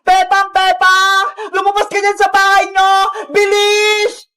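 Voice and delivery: mild shout to a neighbour; calling out. Acted. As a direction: call her out of the house, urgently. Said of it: "Bakit ka sumisigaw?".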